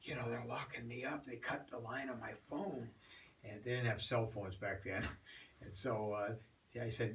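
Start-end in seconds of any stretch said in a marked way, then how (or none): 0.0-2.9 urgent hushed whisper; breathy secret whisper. Retold or imitated. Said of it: "she whispers to me".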